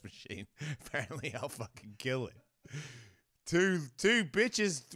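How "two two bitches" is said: slow, high singer's voice through a voice changer, then a slip. Pretend. Comedian trying a joke about a singer on the voice machine. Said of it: "I can do share".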